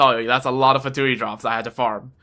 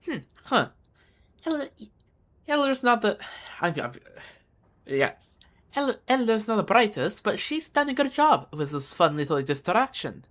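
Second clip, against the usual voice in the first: put-on female Slavic accent; 5 semitones higher than usual. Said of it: "try to do a freaking female Slavic accent".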